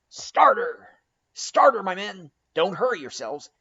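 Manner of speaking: high, loud rallying cry to the crew; Stubb crying out. A narrator's reading. Mate urging his oarsmen on, loud rallying shout. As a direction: roar the crew on from the boat. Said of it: "cried Stubbs".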